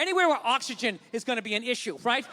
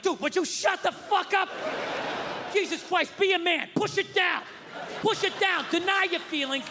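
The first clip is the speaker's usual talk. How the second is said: exasperated scolding; 5 semitones higher than usual. Acted. Imagined scolding of a scared passenger.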